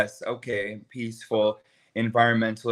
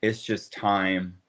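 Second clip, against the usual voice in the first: slow quoted advice; 4 semitones lower, slower than usual. Retold or imitated. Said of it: "I can hear you saying".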